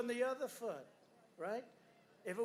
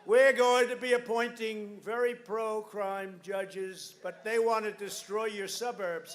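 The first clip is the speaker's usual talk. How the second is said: full-force campaign rally delivery; rally speech; 8 dB louder than usual. Real, not acted. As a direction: preach it hard to a roaring crowd. Rally crowd, shouted lines.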